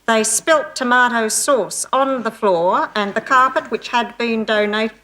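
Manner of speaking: slow, deliberate country news read; mock small-town newsreader; local radio newsreader. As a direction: read the news carefully, word by word. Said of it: "He says".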